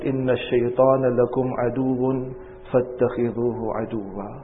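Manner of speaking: very fast recited Arabic verse; Quran recitation. Acted. Preacher reciting the ayat to congregation, fast. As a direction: chant the ayat quickly.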